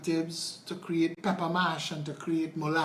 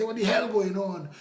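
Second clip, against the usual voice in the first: mock angry outburst, louder and higher; irate driver; 4 semitones higher, 6 dB louder than usual. Driver who hit a pothole calls the MP, angry. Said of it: "they say".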